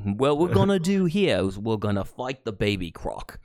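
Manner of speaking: put-on light Australian wildlife host accent; croc hunter accent. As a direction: play the croc hunter about to fight a baby croc. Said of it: "I don't know what that accent is".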